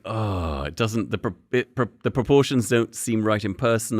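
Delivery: hushed, deflated mock disappointment; heart sinking. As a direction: act out a quiet letdown on opening the package. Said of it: "your heart just sinks".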